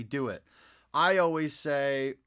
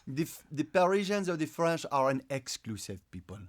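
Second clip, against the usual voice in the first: English with a French accent; Parisian accent. Shown as a demonstration. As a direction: explain as a Parisian would. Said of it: "doing the French accent or a Parisian accent".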